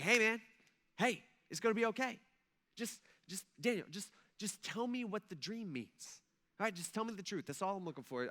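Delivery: a hint of a nervous king coaxing softly; king coaxing Daniel. King urging Daniel to tell the dream, softly coaxing.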